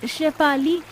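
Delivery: lightly voiced poor friend.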